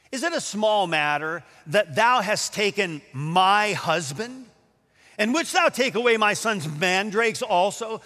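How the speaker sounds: mildly derisive scripture quote; derision. Acted. Leah answering Rachel's request for mandrakes, with mild derision. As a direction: put a touch of scorn on the accusation. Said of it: "hear the derision in her voice".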